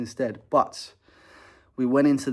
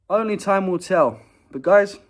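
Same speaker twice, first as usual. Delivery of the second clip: dramatic; 9 semitones higher, 9 dB louder than usual. Real, not acted. Dramatic sign-off.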